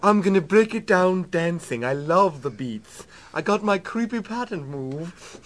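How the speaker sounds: mock British member of Parliament; incongruously formal British accent. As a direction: deliver trashy quotes in lightly hammed-up British. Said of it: "brought to you by members of Parliament".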